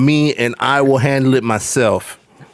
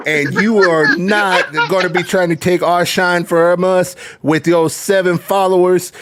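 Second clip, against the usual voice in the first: higher, heated wrestling-promo rant; mock trash talk; 5 semitones higher than usual. Guest calls out a troll in chat, heated promo rant. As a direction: call him out like a heel cutting a promo.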